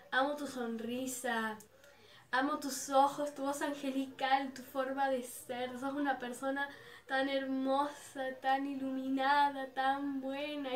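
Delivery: slow, admiring declaration; unhurried retold love speech; adoring. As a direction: list each praise slowly and sincerely. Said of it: "toda mi admiración hacia él".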